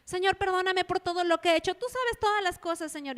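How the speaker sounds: high, quick, breezy plea for forgiveness; the wrong way to pray, quick and high; vague hurried prayer. Retold or imitated. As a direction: rattle off a generic prayer too lightly. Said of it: "cuando nosotros oramos y le decimos".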